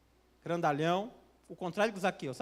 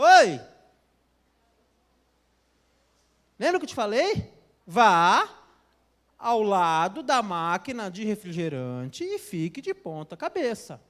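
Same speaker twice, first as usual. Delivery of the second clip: louder, stronger voice; 10 dB louder than usual. Retold or imitated. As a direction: voice booming much louder, insistent. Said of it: "a voz falou mais forte pra ela". (voz forte e insistente, bem mais alta)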